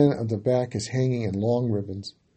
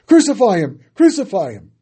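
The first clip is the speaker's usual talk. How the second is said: loud, higher chant-like shout; crowd shouting; 7 semitones higher, 10 dB louder than usual. A narrator's reading. Crowd shouting at Pilate, loud fevered roar. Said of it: "they shouted over and over".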